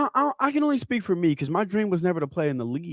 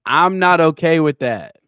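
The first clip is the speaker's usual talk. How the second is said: mock stern demand; 6 dB louder than usual. Fake-angry boss demand.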